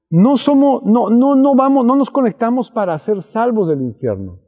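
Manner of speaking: emphatic preaching. Real, not acted. Preacher insists after announcing repeat.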